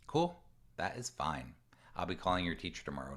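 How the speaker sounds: calm and unbothered, the second line fast; matter-of-fact. Retold or imitated. Parent telling their kid about a teacher call, matter-of-fact. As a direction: say it plainly with no threat in it. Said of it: "not saying this in a condescending way".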